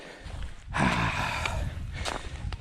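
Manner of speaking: long breathless sigh; heavy exhale. Real, not acted. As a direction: blow out hard after the climb. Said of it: "I'm out of breath".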